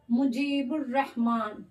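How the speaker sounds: slow मुजीबुर रहमान, ब straight into र, no l sound; slow pronunciation demo. Shown as a demonstration. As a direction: spell it out slowly, the lām silent. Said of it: "बे के बाद लाम का pronounce नहीं हुआ है". (धीरे से मुजीबुर रहमान, लाम नहीं)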